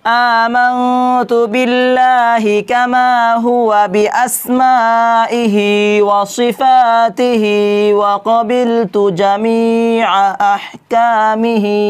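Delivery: slow, careful Arabic recitation. Shown as a demonstration. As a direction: model the kalima for learners. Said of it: "তো ভালো করে শুনবেন". (ধীরে স্পষ্ট আরবি উচ্চারণ)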